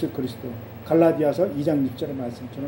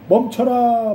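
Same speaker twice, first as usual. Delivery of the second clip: raised-pitch urgent order to halt; startled command; 4 semitones higher, 4 dB louder, much slower than usual. Acted. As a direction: call a halt, as if alarmed. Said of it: "하나님이 놀라셔가지고". (놀란 듯 다급하고 높게 명령하듯)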